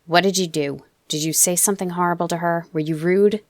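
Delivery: irritated. Acted. Father interrogating his son about the housekeeper, irritated. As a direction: press him, losing patience. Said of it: "He sounded irritated then".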